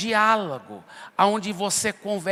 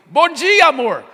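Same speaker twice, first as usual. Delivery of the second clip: much higher, louder sing-song bom dia; sweet wife greeting; 6 semitones higher, 8 dB louder than usual. Pretend. Wife greeting her husband on Saturday morning, high and sweet. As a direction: chirp it brightly like a loving wife.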